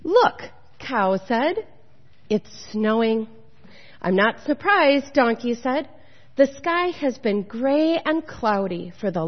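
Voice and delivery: measured storybook narration with lilting tune; picture-book reading voice; children's story read-aloud. A narrator's reading. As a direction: read it to children, pausing between phrases.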